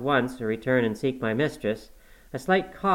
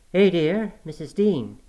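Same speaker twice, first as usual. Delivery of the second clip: Zillah's high, loud cry of greeting; exclaiming; 7 semitones higher, 4 dB louder, slower than usual. A narrator's reading. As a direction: exclaim in surprise at an old acquaintance. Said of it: "she exclaimed".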